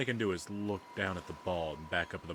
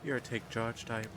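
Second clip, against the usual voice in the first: lightly voiced, higher-pitched onlooker; teasing character voice; 7 semitones higher than usual. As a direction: remark approvingly in a slightly raised character voice. Game character's voice remarks on player.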